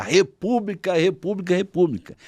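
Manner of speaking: half-shouted imitation of a crowd-rouser; retold rallying cry. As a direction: chant it like a restrained rallying cry. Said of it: "começou a gritar".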